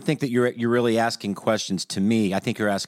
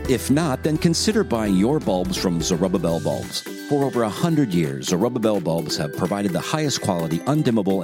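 upbeat radio ad voice; ad read. Shown as a demonstration. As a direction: sell it like a commercial announcer. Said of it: "I'm just gonna do a dry read here".

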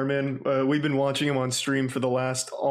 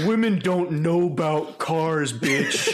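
mock mechanic voice; 4 semitones higher, 4 dB louder, slower than usual. Mocking mechanic in Darman video.

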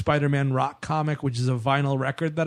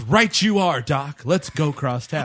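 Peter Parker voice; slower than usual. Retold or imitated. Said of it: "Peter Parker says".

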